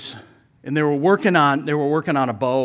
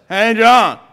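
loud gruff-neighbor holler, imitated; comic neighbor's shouted greeting; Louie; 8 semitones higher, 11 dB louder than usual. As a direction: call out higher and much louder, mimicking a character. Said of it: "And he talked like this".

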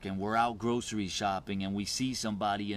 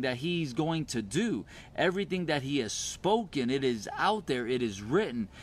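raised-pitch, emphatic preaching; 4 semitones higher than usual. Real, not acted. Preacher telling believers what is already done, emphatic preaching. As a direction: proclaim it, leaning on the key words.

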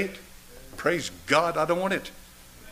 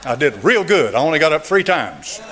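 laughing reply. Retold or imitated. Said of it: "I said".

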